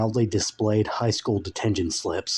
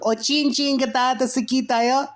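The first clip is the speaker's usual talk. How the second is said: eerie demon voice. Acted. Dark lord calling to sleeping Frank, very high eerie voice. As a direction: call like an otherworldly dark lord. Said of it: "a second voice could be heard whispering".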